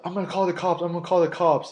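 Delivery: high-pitched mock whine; imitating the angry guy. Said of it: "he's like".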